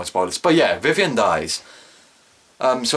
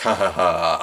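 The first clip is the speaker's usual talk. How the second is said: low, mock "ha ha ha"; imitated laugh; 5 semitones lower than usual. Viewer retelling the character's taunt, mock laughing. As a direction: fake a spoken laugh. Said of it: "you know, he's laughing".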